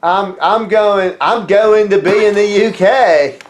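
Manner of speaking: hammed-up terrible British wrestler; British Bulldog. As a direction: strain for British and miss, drawing it out. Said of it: "doing a British Bulldog impression".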